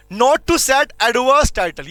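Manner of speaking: very slow, word by word for note-taking; slow dictation. Shown as a demonstration. Teacher dictating slowly to students taking notes. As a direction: spell it out slowly so students can write. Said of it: "इनको ऐसे पढ़ना है".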